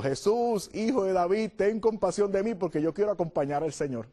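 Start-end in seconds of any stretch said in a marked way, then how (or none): 0.0-2.5 mild cry for mercy. Retold or imitated.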